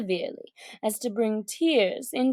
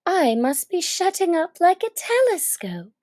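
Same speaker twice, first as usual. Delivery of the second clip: put-on higher girl's voice in an amazed whisper; Alice whispering; 7 semitones higher, 4 dB louder than usual. Alice shrinking like a telescope, an amazed whisper. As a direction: let Alice breathe it out in wonder.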